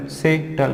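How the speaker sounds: सेटल as से, then टल; split into syllables. Shown as a demonstration. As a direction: break सेटल in two with a falling टल. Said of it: "टल कभी भी हमेशा एक साथ पढ़ना".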